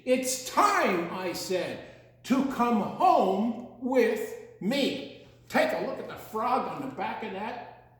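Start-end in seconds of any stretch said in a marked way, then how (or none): 0.0-5.3 put-on eager child. Child invites the animals.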